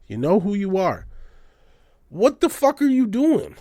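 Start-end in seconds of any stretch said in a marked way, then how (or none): 2.1-3.6 loud, high, furious yell; angry yell. Real, not acted. Ranting at dumb art buyers, angry high yell. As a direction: blast them with a yell of disbelief.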